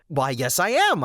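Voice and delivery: smug grin. Retold or imitated. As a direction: answer through a big smug grin. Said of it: "huge crap-eating grin".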